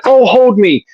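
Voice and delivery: mock-frightened girly plea, pitched high; clingy date. Date on the haunted trail, mock-scared and high. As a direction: play the scared girl begging to be held. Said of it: "she's like".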